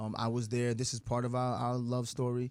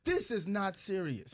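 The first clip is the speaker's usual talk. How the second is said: slow, higher-pitched imitation; measured mock disapproval of the grown-ups; unimpressed child; 7 semitones higher, slower than usual. Young son judging arguing parents, mock-unimpressed. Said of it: "he was looking at us like".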